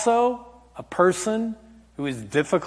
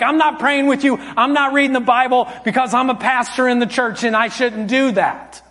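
higher-pitched retold scolding; acted angry yelling; 6 semitones higher than usual. Dad refusing his daughter the bedtime routine, acted angry yelling. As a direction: lay down the law in a heated mock rant. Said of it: "you need to apologize for yelling".

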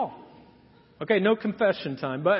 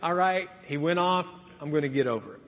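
calm letting go; 5 semitones lower, 4 dB quieter, faster than usual. Retold or imitated. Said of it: "we should just be like".

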